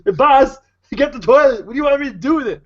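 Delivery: high, loud, dopey henchman voice; a dim goon asking the boss for orders; dumb guy voice. Acted. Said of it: "it's a dumb guy voice".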